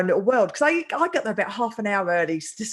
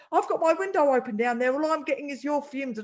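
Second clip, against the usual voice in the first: mildly heated, slightly raised complaint; imitated anger; 3 semitones higher than usual. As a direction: retell an indignant stranger's grievance. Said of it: "like, really angry".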